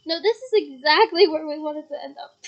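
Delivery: mock the obvious; very sarcastic. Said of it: "very sarcastic".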